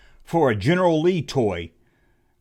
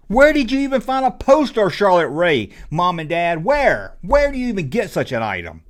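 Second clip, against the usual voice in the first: exasperated mock outrage; 4 semitones higher, 4 dB louder than usual. Exasperated at parents.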